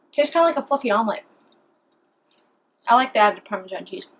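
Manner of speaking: talking while chewing; words round a bite of food; mouth full. Real, not acted. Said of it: "talk with my mouth full".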